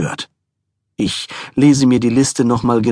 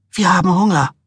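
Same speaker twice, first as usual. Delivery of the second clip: insistent wife; 7 semitones higher, faster than usual. A narrator's reading. Wife demanding food, repeated.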